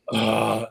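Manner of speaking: wordless exasperated "uh"; imitated disgusted noise. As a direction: mimic her fed-up groan. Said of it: "she just makes, like, this noise".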